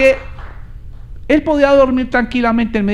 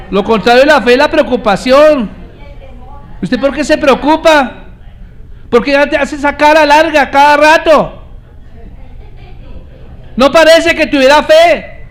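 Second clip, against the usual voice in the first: louder, proclaiming to the congregation; full-force preaching; 6 semitones higher, 4 dB louder than usual. Acted. Preacher rousing the church to applaud, preaching loudly. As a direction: preach it out loud, calling for applause.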